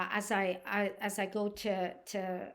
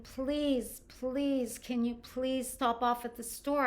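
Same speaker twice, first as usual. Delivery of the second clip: retold plea, raised pitch on each please; desperate pleading; 4 semitones higher, slower than usual. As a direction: beg a little, imitating her desperation. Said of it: "she was desperate for a drink".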